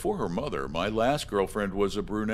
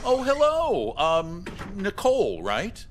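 much higher, louder sing-song hello; a dad trying too hard to sound friendly; overeager dad greeting; 8 semitones higher, 4 dB louder than usual. Acted. Creepy dad greets his daughter's friend, high and overeager.

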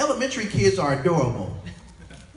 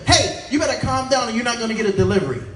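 mock angry worker; 3 semitones higher, 6 dB louder, faster than usual. Worker snaps at caller.

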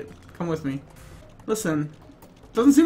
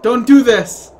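mock loud plea; 2 semitones higher, 9 dB louder than usual. Pleading with jumper character.

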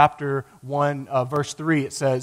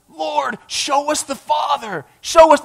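higher, eager plea for the Father; excited Philip; 10 semitones higher, 4 dB louder, slower than usual. Retold or imitated. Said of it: "I bet he was so excited".

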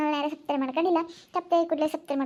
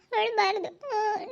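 tearful comforting; 5 semitones higher, much slower than usual. Acted. Comforting while crying too.

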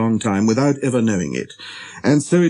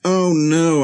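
raised-pitch protest; crying out; 6 semitones higher than usual. A narrator's reading. Pilot interrupting the little prince, exasperated. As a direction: cut in with a mild outcry. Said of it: "I cried".

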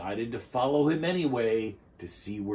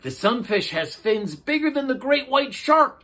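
excited Turtle; 8 dB louder than usual. A narrator's reading. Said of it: "Turtle said".

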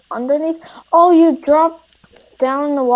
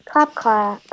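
sarcastic; 2 semitones lower, 5 dB quieter, slower than usual. Pretend. Sarcastic applause after death.

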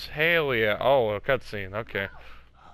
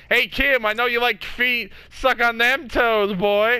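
teasing; 6 semitones higher than usual. Pretend. Teasing a friend about feet.

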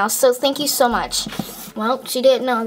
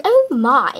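usual speaking voice

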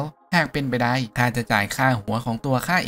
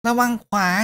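put-on kid cheering; 11 semitones higher than usual. Kid cheers the fighting hero, high falling shout. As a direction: yell ระวังขวา and drop at the end. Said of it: "ร้องเชียร์".

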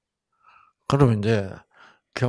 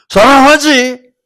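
loud, high, slow gruff shout of love; gruff husband shouting; 13 semitones higher, 14 dB louder than usual. Retold or imitated. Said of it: "당신이 날 사랑하는 건겨?".

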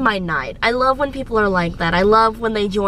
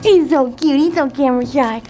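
loud, higher gushing tease; teasing coo; 4 semitones higher, 4 dB louder than usual. Real, not acted. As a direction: coo over a shy friend. Teasing shy coworker on camera.

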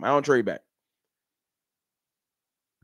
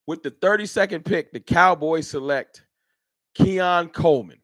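draft pick announcer. Pretend.

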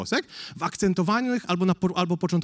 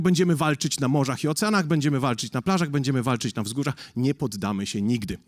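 Churchill speech; 5 semitones lower than usual. Retold or imitated. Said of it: "przemówienie Winstona Churchilla".

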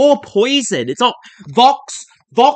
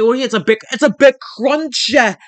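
higher-pitched scornful echo; worked-up, pitched-up ridicule; mocking rant; 4 semitones higher than usual. Real, not acted. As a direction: throw the claim back in mock disbelief. Mocks the crunchy rice claim.

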